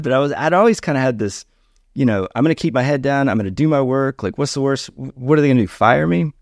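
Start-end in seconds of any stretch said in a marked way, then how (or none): 2.3-6.3 mock carefree bravado. Retold inner voice, defiant.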